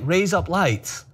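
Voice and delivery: put-on Australian accent. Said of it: "kept trying to say it in different ways".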